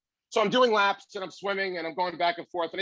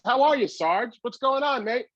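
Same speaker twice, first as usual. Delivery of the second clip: friendly greeting; 6 semitones higher, 3 dB louder than usual. Retold or imitated. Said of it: "He says".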